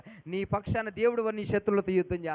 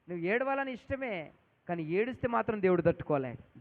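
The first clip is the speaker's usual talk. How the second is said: low, softer, earnest repeat; soft, lower restatement; 4 semitones lower than usual. Real, not acted. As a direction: drop the voice and say it gently.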